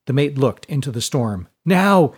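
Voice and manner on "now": sharp high loud call; yell. A narrator's reading. Mate to sailors in the storm, yelling. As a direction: yell the command. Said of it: "he yelled".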